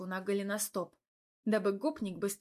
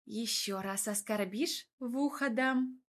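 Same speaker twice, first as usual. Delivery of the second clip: threatening. Acted. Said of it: "пригрозила я".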